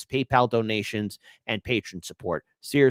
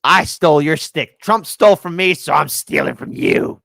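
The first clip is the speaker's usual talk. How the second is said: mock taunt; 9 dB louder than usual. Taunts, stole a stick.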